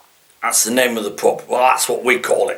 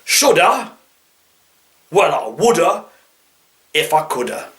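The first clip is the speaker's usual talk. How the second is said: put-on East Midlands accent; 2 semitones higher than usual. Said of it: "Should I? Well, I would".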